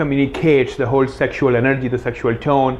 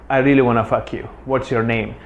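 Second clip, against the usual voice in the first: attracted tonality; 2 semitones lower than usual. Shown as a demonstration. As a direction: say it with attraction under the words. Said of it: "my tonality changes".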